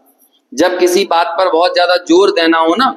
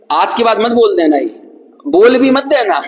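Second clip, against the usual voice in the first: mild warning; 4 semitones higher than usual. Retold or imitated. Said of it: "तो हम तो बोलते हैं".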